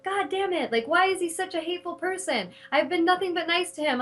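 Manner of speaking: furious demo of a hateful ex's texts; angry venting. Shown as a demonstration. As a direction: vent it out, fully fed up. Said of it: "giving them a demo of what that looks like".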